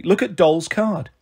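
mildly sharp, slow reminder. Acted. Daughter telling her mother to look at the card, sharp. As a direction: pull her up with measured firmness. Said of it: "Star said sharply".

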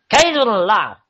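put-on high, loud half-Russian accent; put-on voice slipping into Russian. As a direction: read it in a rough attempt at Russian. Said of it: "Is that, like, a Russian accent".

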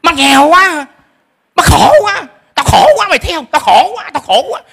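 high, complaining mother's moan; high whiny lament of a poor mother; whining mother. Shown as a demonstration. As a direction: whine like a self-pitying mom. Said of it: "Đừng có than".

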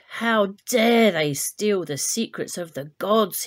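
Zeus raging at the humans' theft. Acted. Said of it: "he raged".

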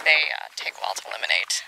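hushed whisper while the dog pees. Real, not acted. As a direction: whisper so as not to disturb the dog. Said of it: "I will stop a command".

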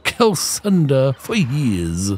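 a boastful captain welcoming a newcomer; ship captain voice. Acted. Captain's weary speech.

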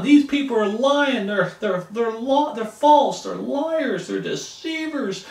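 high, loud indignant name-calling; rising bitter outrage; angry accusing. Pretend. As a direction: lash out at the liars.

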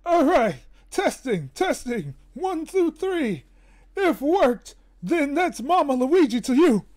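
lightly voiced cartoon plumber testing the mic; a hint of a cartoon character; Mama Luigi quote. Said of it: "what do you want me to say".

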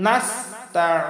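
slow "নাস্তাইন", long IN from mid-throat; throaty ayn. Shown as a demonstration. Teacher modelling the ayn, slow throaty recitation. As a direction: press the ayn in "নাস্তাইন" and hold it. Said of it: "হলকের মধ্য থেকে আমরা উচ্চারণ".

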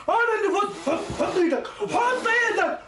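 crowing with laughter over the win; laughing gloat. Acted. Boy laughing at his friend after winning the game.

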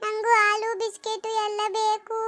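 put-on slow, pleading child's whine; tearful whining. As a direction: drag out the words, half crying. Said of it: "ಇದ್ಯಾಕ್ ಅಳ್ತಾ ಇದ್ದೀರಿ". (ಅಳುಮುಂಜಿ ರಾಗದಲ್ಲಿ ಕೇಳುವುದು)

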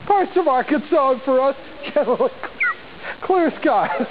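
forecast through bursts of giggles; trying not to laugh. Real, not acted. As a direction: keep reading despite laughter. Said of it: "I gotta get through this".

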